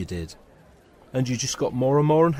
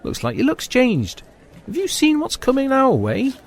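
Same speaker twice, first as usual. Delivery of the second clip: excited; 12 semitones higher than usual. Acted. Spotting a woman approaching.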